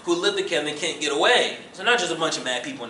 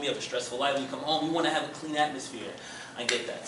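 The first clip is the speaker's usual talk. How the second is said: reflective listening; 3 semitones lower, 4 dB quieter, faster than usual. Shown as a demonstration. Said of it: "me reflective listening".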